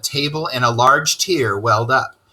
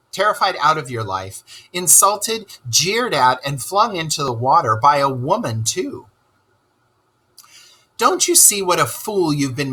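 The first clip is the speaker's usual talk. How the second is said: lightly voiced Rat listing Toad's troubles, rising in places; lecturing Rat; 5 semitones higher than usual. Rat lecturing Toad about his foolish adventures, scolding. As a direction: tick off each misfortune like a scolding friend.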